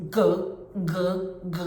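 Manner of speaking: short throaty g g g; g g g, the bath plug draining; repeated G sound. Shown as a demonstration. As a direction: click out a run of back-tongue Gs. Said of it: "it's gonna sound like this".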